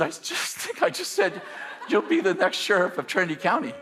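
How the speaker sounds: laughing while repeating the words in disbelief. Retold or imitated. Telling his friend what he just blurted out, laughing. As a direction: giggle through the quote, pitch up. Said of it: "I said".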